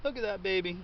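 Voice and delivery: high, gleeful "oh ho ho"; delighted jackpot cry. Real, not acted. Gardener unearthing a big potato, delighted. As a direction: crow with delight, pitched well up.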